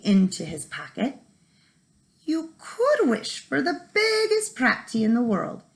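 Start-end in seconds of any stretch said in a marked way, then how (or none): 2.2-5.6 sly leprechaun. Acted. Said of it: "said the leprechaun".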